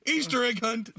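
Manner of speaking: high-pitched sarcastic question; mock incredulity. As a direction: toss it up high as a scoffing question. Mocks the spoiled egg hunt.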